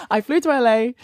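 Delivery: I flew to L A, with stress on to. Real, not acted. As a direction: insist on the flight. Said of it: "repeats, stressing it".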